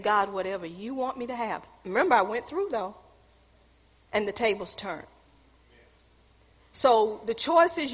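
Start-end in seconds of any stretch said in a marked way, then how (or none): 0.0-1.6 humble prayer. Retold or imitated. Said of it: "got into a humbling state".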